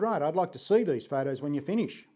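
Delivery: lightly imitated English accent; a hint of an English professor's accent. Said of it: "an English professor type and spoke like that".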